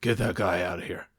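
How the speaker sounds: utterly bored, flat delivery; bored Seagal. Retold or imitated. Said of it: "picture the most bored voice you can think of".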